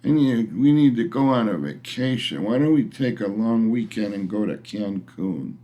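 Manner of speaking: a touch of whiny drag on burned out; mock whining wife. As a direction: lightly mimic a tired wife pleading for a trip. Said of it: "She came home once whining about".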